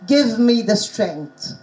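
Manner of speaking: "Give me the strength" recited slowly with short "Give" and "strength" vowels; slow, deliberate "Give me the strength" with a fall. Shown as a demonstration. Teacher showing a repeated poem line, slow short-vowel "Give me the strength". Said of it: "teaching them the short vowels".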